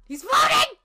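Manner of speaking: excited squeal. Real, not acted. Laughing at sprite.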